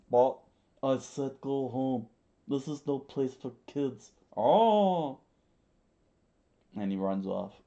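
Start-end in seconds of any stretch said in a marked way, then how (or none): 0.1-5.2 voiced boy protest and leader. Kappa cut off and sent home.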